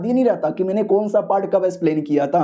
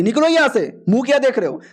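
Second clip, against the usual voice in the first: angry order; 5 semitones higher than usual. Acted. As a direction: bark them out of the room. Principal throws students out. (गुस्से में भगाना)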